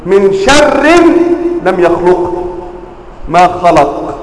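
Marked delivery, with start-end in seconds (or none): 0.1-2.3 recited as من شر لم يخلق, لم stressed; قراءة خاطئة من شر لم يخلق; reading with lam. Shown as a demonstration. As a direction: read out من شر لم يخلق as the wrong reading. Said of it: "نقرأ هذه الآية كيف؟".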